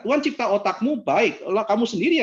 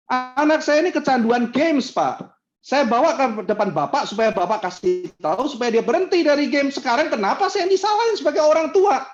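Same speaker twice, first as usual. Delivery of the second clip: indignant parent; 7 semitones higher than usual. Retold or imitated. Parent protesting to the pastor, indignant.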